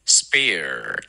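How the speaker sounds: Spare drawn out with a strong final R; slow model of Spare, R-coloured ending; curled-tongue R. Shown as a demonstration. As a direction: curl the tongue and hold the end of Spare. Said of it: "要卷舌".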